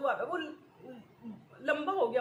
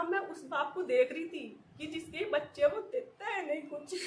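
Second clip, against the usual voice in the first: choking up; 3 semitones higher than usual. Real, not acted. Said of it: "फिर मैं emotional हो जाती हूँ".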